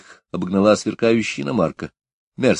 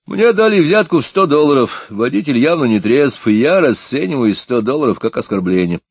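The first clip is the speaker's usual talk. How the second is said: much higher and louder, official tone; loud announcement; 7 semitones higher, 5 dB louder than usual. A narrator's reading. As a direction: declare it for the whole street to hear. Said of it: "громко объявил".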